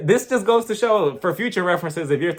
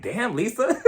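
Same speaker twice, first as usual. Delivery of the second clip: laughing damn; 4 semitones higher, 3 dB quieter, slower than usual. Retold or imitated. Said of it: "And I'm like".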